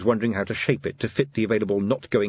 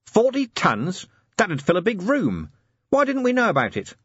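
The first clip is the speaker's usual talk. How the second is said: surprised; 11 semitones higher, 3 dB louder than usual. Acted. Vimes shocked by figure.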